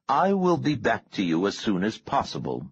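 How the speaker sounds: measured, emphatic orders to a subordinate; commanding boss on the line. Acted. Boss instructing his man on a search, lightly voiced command.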